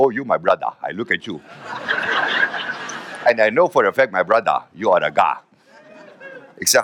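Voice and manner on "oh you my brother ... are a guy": lower, solemn voice of a village man; old villager. Retold or imitated. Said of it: "En hij zegt". (licht gespeelde plechtige dorpsoudste)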